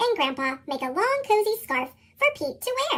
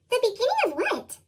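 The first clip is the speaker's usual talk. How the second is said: curious Birch; 6 semitones higher than usual. A narrator's reading.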